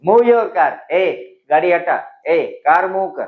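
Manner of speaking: curt, rough command; rough blunt command; rustic order. Shown as a demonstration. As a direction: bark the order at the driver. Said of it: "it sounds rustic".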